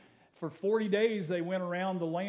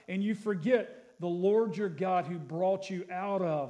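scripture reading; 2 semitones higher than usual. Acted. Pastor reads the promise of the land to the church, proclaiming. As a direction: lift the verse to the room.

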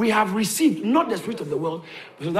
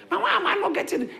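doubter's question; 10 semitones higher, faster than usual. Retold or imitated. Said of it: "voices a doubter's question".

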